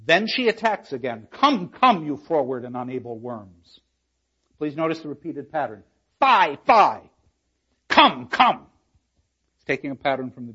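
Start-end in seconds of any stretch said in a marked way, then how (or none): 1.3-3.8 mock scolding. Lecturer reads Kate's scolding speech. 6.2-8.7 loud, sharp scolding cries; scolding outburst. Acted. Lecturer reads Kate scolding the wives, loudly. Repeated pattern read with force.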